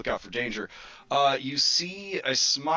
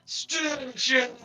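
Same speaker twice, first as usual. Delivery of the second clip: crowd shout; 13 semitones higher than usual. Acted. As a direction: bellow it like a whole arena. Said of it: "the crowd all, uh, shout".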